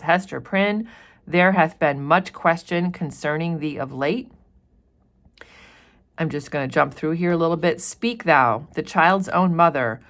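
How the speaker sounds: a hint of a stern official questioning Hester; teacher voicing the governor to Hester; lightly voiced stern governor. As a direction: press her about the child firmly. Reads governor addressing Hester.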